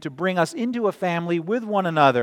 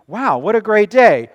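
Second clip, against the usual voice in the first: louder, higher mock-amazed exclamation; enthusiastic; 5 semitones higher, 9 dB louder than usual. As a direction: act out someone's loud delight at the day. Acts someone making an enthusiastic remark.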